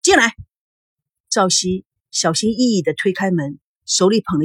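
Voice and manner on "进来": high, irritated call to enter; a touch of leftover anger; lingering anger. A narrator's reading. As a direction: call out, still cross. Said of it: "孙振余怒未消".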